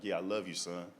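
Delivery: very low, soft, loving; tearful mother. Retold or imitated. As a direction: imitate a crying mother quietly saying goodbye.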